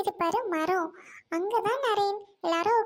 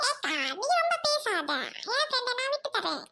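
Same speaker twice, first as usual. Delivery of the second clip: high-pitched put-on voice; possessive retort; 6 semitones higher than usual. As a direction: snap back in a high character voice. Quarrel over the friend. (உச்சக் குரலில் பதிலடி)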